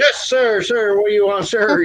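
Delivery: high, nervous mock yes-sir; scared teen. Teen boy answering the cop, mock nervous. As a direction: stammer like a frightened kid.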